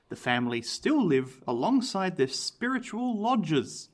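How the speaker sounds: measured, dramatic history narration; story narration. A narrator's reading. Host tells of the family moving in, measured story narration. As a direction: narrate it like a haunted-house tale.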